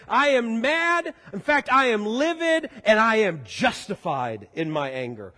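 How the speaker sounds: mild, emphatic self-righteous anger; acted anger. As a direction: declare it as justified, dropping at the end. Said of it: "know how angry we are".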